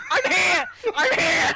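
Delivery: mild mock yell, I'm here; retold yelling. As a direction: call out I'm here, half-shouted. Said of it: "I've been screaming".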